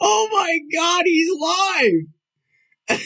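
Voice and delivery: high, loud laughing shout of disbelief; cracking up and shouting at the news; shocked laughing shout. Real, not acted. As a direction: yell it out through laughter. Discovers rival is live.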